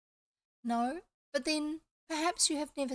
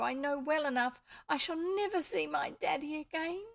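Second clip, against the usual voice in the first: distressed; 5 semitones higher, 5 dB louder than usual. Acted. Elfrida distressed about her father.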